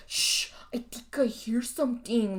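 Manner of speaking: hushed, breathy horror-movie line; mock horror whisper. Mocking Pepe's line in the movie, whispered. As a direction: whisper it like you're sure something's lurking. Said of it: "Pepe does his famous".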